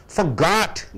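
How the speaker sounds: For got, with GOT punched; one word, For got, weight on the second syllable; stress on second syllable. Shown as a demonstration. Teacher contrasting a verb with a noun, stress on second syllable. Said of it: "got is the second syllable verb".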